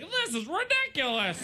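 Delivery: high-pitched mock British detective white guy; caricatured white man, high and British; one white guy voice. Shown as a demonstration. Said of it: "have the one white guy voice".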